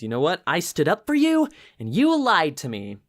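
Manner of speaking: mock indignation, jumping high in pitch; imitating someone confronting a liar; retold confrontation. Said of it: "she finally confronts Nick".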